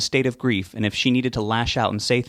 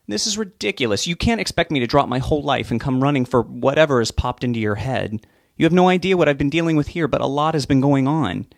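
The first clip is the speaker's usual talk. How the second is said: louder, exasperated outburst at his mother; fed up, push back hard; angry son; 5 semitones higher, 3 dB louder than usual. Acted. Son snaps at pushy mother.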